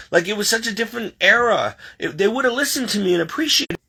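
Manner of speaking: worked-up retold lament, often high-pitched; grumbling complaint. Retelling a complaint to God about this generation, grumbling. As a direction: whine about how easy they had it. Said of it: "so I'm grumbling, complaining".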